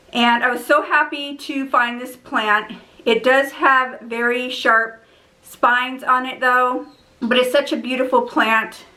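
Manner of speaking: winded after running upstairs; catching breath between phrases. Real, not acted. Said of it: "Sorry, I'm out of breath".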